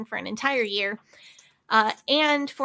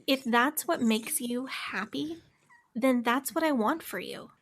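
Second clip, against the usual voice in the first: cult leader voice; slower than usual. Shown as a demonstration. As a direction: soothe them like a cult guru. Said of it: "should I say that in cult leader voice?".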